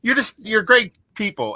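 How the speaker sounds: high, warm imitation of the woman refusing money; insistent bartender. Bartender refuses payment from the fans, voiced high and friendly. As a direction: play a woman happily waving off payment. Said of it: "She's like".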